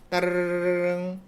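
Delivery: sung-out imitation of a ringing phone. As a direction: ring it out like a telephone. (전화벨 소리 흉내)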